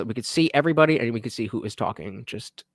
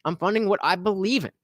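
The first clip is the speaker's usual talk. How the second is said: lightly put-on, higher reading voice at the start; reading donor message; 5 semitones higher than usual. Streamer reading a donor's message aloud to chat, in a lightly put-on voice. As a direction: read the donor's words in a hint of a mock-grand tone. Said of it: "the God Daddy said".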